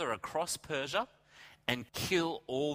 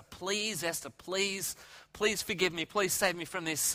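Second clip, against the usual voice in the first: higher-pitched acted pleading; begging; 4 semitones higher than usual. Haman to Queen Esther for his life, begging. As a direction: plead for mercy, lightly acted. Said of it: "he starts to beg Esther".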